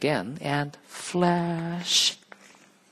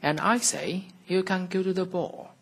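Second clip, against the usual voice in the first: fairy godmother; 8 semitones higher than usual. Acted. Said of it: "said the old lady".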